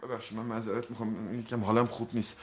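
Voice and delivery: soft apology. Acted. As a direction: back down gently. Apologizes after shouting. (عذرخواهی آرام و آهسته)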